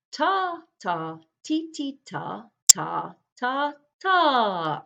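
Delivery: spoken beat names, each one punched; "ta" and "ti" tapped out as separate beats; rhythm syllables. Shown as a demonstration. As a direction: call out the rhythm note by note. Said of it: "the rhythm that goes".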